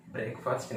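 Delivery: ब्रेकफास्ट as brayk-faast; long vowels in both halves of ब्रेकफास्ट; common mispronunciation. Shown as a demonstration. Teacher naming the version to avoid, brayk-faast mispronunciation. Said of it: "नहीं है".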